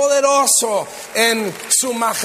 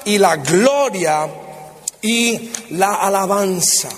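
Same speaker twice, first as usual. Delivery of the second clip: slow, stately Bible reading, each item set apart; scripture proclamation. Real, not acted. Preacher reads Revelation to the congregation, slow, solemn proclamation. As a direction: proclaim each attribute slowly and deliberately.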